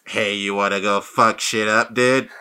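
lightly voiced gorilla bro; mock tough Brain. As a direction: play it like a dumb tough-guy ape. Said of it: "Brain doesn't talk like that".

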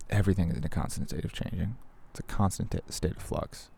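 soft close whisper into the mic; right in your ear. Real, not acted. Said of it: "I'm gonna whisper into the microphone now".

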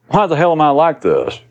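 high, self-pitying plaint; inner voice, complaining. Acted. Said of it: "Or worse than that is".

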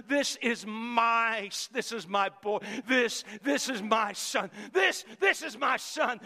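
slow, tender, proud father; a hint of a loving father's voice; voicing God the Father. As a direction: speak it like a proud dad over his boy. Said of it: "as he said to the Son".

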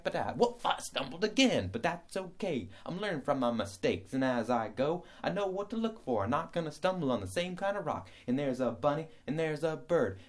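the happy hiker who laughs at his own trips; cheerful clumsy hiker. Pretend. Plays cheerful hiker who keeps stumbling.

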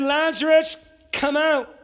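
calling out high and loud; Jesus calling Lazarus out of the tomb, loud. Retold or imitated. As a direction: call him out of the grave. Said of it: "And he said".

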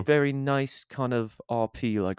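attempted posh RP accent; posh British RP. Shown as a demonstration. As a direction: put on very posh British Received Pronunciation. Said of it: "like, very posh".

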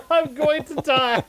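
slow, high, hammed-up scream; mock yell, drawn out.

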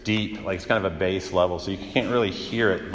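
dropped low and soft, like a grumble under the breath; low bass grumble. Shown as a demonstration. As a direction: let the voice sink to a bass rumble. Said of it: "it's so low, low, like, it's very deep".

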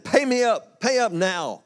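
grab him by the throat and demand it. Acted. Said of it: "seized him by the throat and demanded".

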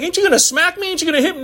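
lightly voiced worried child; child pleading. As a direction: sound like a kid bracing for a smack. Child voiced expecting punishment.

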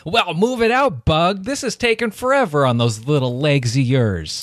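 grumpy, pushy miser voice; Phony Bone voice. Acted. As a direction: rush her along like a rude boss. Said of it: "I'll be, uh, Phony Bone".

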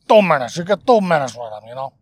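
weird guy voice. Retold or imitated. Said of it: "I kinda like that one too".

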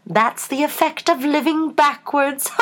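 high, slow, indulgent explanation; gently amused storybook queen; kindly Queen. A narrator's reading. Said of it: "the Queen said kindly".

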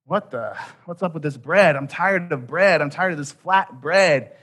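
mock-whiny grumble; whiny complaining. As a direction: complain like a fed-up kid tired of the same meal. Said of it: "They're like".

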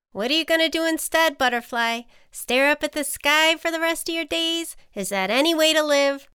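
high-pitched, needling ant; animated storybook ant, pressing hard; challenging ant. A narrator's reading. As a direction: goad the reluctant friend.

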